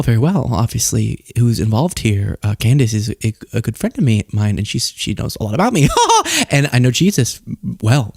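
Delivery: low, halting pundit parody with a giggle; Tucker Carlson. Retold or imitated. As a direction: hem and haw down low, insinuating. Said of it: "then Tucker would be like".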